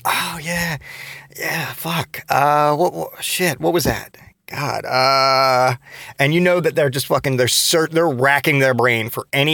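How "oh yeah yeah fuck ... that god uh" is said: flustered stranger. Retold or imitated. Confused stranger pretending to remember an old friend, fumbling. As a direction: stall like you can't place them.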